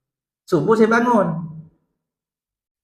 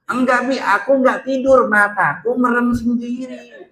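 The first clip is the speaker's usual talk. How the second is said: higher, lightly voiced child denying; child's excuse; 6 semitones higher, 3 dB louder than usual. Son insisting to his mum he wasn't asleep, higher child voice. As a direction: plead innocence like a kid. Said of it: "kata anak saya".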